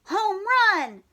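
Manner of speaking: high excited shout of home run; shouted cheer. Acted. Froggy cheering his home run, shouting high. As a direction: yell it like a triumphant kid. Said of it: "shouted Froggy".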